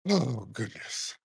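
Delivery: slow, low, soft dismay; weary, drawn-out exclamation; exasperated. Real, not acted. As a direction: let it out slowly under your breath. Exasperated by caller's background birds.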